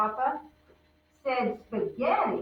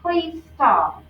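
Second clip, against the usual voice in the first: pleading; 6 semitones higher, 6 dB louder than usual. Acted. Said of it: "Lucy said".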